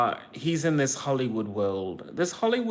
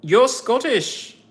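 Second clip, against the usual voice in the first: delighted fan; 10 semitones higher, 7 dB louder, slower than usual. Pretend. Excited fan squeal again.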